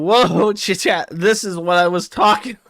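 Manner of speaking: high, loud excited stammer at chat; mock scream at chat. Worski screaming at his chat, voiced while laughing. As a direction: yell at chat half-laughing. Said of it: "Worski starts screaming at chat now".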